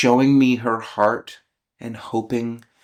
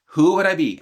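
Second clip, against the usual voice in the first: high-pitched, worked-up question; first attempt; 6 semitones higher, 3 dB louder, faster than usual. Real, not acted. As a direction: still wound up, pitched high. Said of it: "I'm gonna try it again".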